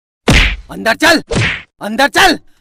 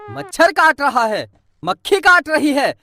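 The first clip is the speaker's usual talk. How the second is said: mocking repeat; 2 semitones lower than usual. Father mocking his child's whining. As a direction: sneer it back at the kid. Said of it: "बस यही सुनने का काम है".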